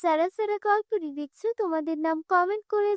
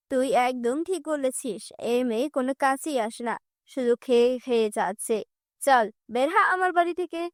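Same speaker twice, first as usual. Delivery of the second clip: harsh stepmother; 2 semitones lower than usual. Acted. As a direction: threaten the girl coldly.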